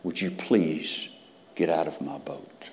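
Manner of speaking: soft, slow pleading whisper; polite plea. Retold or imitated. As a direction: beg him gently to go. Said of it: "politely asks, but very emphatically".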